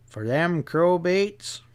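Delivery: lightly voiced sly drawl; a hint of a knowing stableman. Stableman slyly sizing up the riders, light drawl.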